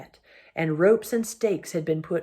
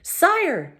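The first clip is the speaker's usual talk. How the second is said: much higher piping call; a small voice calling up high; shrill mouse; 12 semitones higher, 4 dB louder than usual. Acted. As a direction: mouse calling the king from the ground. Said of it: "came a shrill voice".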